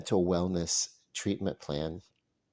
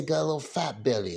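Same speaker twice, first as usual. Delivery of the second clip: a hint of a Southern accent; a little Southern; 5 semitones higher than usual. Shown as a demonstration. Showing how he would say it, a little Southern. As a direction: lightly put on a Southern accent. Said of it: "if I'm a little Southern".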